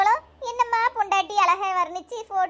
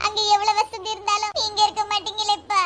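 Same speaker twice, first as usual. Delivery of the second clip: tearful protest between sobs; sob, then plead through the tears; crying. Acted. Bride missing her father already, crying. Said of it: "அழாத மக்களே".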